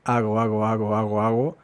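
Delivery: "hago" with soft g, stress on first syllable; shifted stress. Shown as a demonstration. Teacher moving the stress from ago to hago. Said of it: "mueves el acento".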